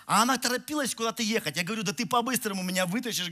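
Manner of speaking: ordinary talk, nothing marked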